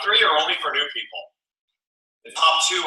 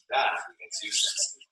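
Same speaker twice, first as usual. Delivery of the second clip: whispered slogan; 7 dB quieter than usual. Acted.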